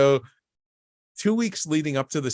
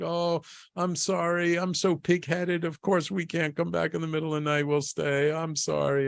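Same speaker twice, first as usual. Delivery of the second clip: apologetic wife; 5 semitones higher than usual. Retold or imitated. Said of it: "she's like".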